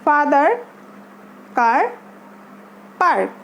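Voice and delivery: "father", "car", "park", each with an open, held "ah"; long "ah" sound. Shown as a demonstration. Teacher repeating for learners, "father", "car", "park" with a long "ah".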